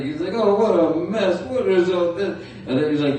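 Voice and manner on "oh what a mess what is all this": higher, mildly fretting bear; lightly voiced bewildered cartoon bear; Pooh Bear. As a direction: fuss over a mess, bear-like. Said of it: "that Pooh Bear impression".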